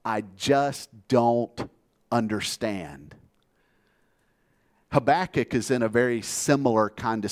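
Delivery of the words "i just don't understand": slow, fading plea that drops away at the end; a hint of tears, drawn out and trailing off; perplexed, tearful plea. Preacher voicing the weeping Barnhouse to God, slow and fading. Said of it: "he's crying and he's perplexed".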